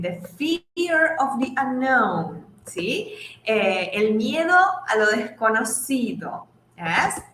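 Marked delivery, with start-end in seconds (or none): 0.0-2.4 slow, careful English; teacher modelling slowly; slow model sentence. Shown as a demonstration. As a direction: say each word slowly for the class. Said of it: "yo puedo decir".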